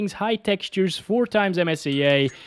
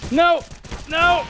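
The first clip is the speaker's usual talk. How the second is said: frustrated no; 13 semitones higher than usual. Real, not acted. Dying in deathmatch.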